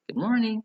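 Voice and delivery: "good morning" with a high, loud peak on morning; drilled "good morning", exaggerated high tune; intonation drill. Shown as a demonstration. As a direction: lift "morning" high for learners to copy. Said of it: "ada pronunciation and intonation".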